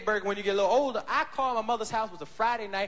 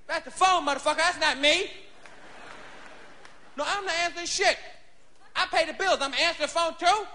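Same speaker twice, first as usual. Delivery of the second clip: put-on drunk father; 5 semitones higher than usual. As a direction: slur and holler at Lil from the couch. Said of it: "drunk pop continues".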